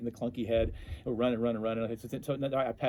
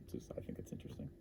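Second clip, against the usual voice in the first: mumbled aside; 18 dB quieter, faster than usual. Real, not acted.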